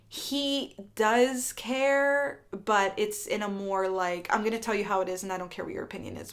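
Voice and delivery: mimicking a blunt, dismissive doctor; lightly voiced no-nonsense doctor; a hint of a curt surgeon who doesn't care.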